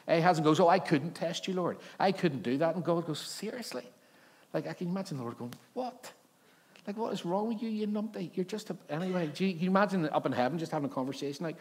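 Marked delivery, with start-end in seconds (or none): 0.6-2.7 mock-pious refusal, raised in pitch; feigned piety. Ahaz excuses himself to God, falsely pious. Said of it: "he kind of feigns piety". 3.2-3.8 high, soft incredulous question; mock disbelief. God answers Ahaz's excuse, incredulous. God's imagined disbelief at Ahaz. 5.7-8.8 high-pitched, incredulous scolding; comic exasperation. Acted. The Lord imagined scolding Ahaz, exasperated.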